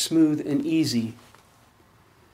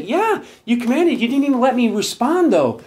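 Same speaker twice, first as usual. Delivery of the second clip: higher, wry put-upon voice; mock-sulky, higher-pitched retort; sheepish Joshua; 7 semitones higher, 5 dB louder than usual. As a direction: Joshua grumbling back at God. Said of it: "Joshua had to say".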